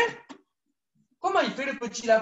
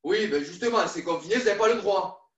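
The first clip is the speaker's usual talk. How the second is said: stern zoo keeper; 5 semitones lower than usual. Pretend. Keeper scolds kids for sneaking in.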